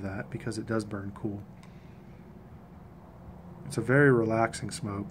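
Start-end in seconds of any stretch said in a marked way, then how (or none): 0.0-1.4 talking around pipe stem; pipe in mouth. Real, not acted. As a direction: lips clamped on stem. Seen 1: Pipe stem at lips from 0.3 s while speaking; out before.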